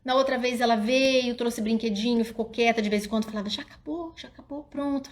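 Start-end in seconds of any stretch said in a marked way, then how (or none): 3.5-5.1 put-on soft, higher child's question; child asking quietly. Child quietly asking mom if she's done. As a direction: ask gently and quietly like a child. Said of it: "Falava baixo".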